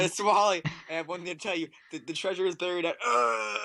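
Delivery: weak, high, tearful dying gasp; dying last words. Pretend. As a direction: croak out your final secret.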